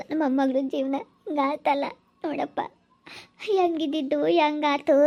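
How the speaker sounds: grandmother's slow, weepy lament; crying over a granddaughter's fate; tearful lament. Acted. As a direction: lament through tears, drawing the words out. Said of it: "ಅದ್ ಯಾಕೆ ಅಳ್ತಾ ಇದೀಯಾ".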